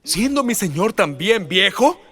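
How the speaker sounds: high, slow musing question; Sara wondering. Acted. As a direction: savour the word placer slowly. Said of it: "Y ella dijo esto".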